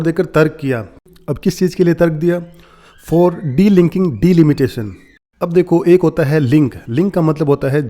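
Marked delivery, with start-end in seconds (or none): 3.1-4.9 "For delinking delimitation" read very slowly, word by word; slow dictation-style read; slow quoting. Shown as a demonstration. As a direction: drag each word out for learners. Teacher reads article phrase.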